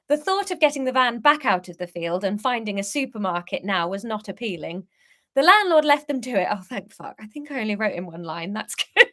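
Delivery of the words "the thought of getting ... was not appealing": measured, clearly phrased storytelling; story narration. A narrator's reading. Author reading a van trip story to listeners, narrating. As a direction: read the tale aloud to listeners.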